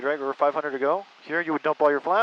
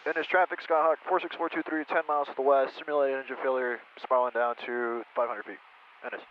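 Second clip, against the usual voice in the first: radio call; 2 semitones lower, 4 dB quieter than usual. Shown as a demonstration. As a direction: read it out like an air traffic call. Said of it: "Let me just make a call real quick".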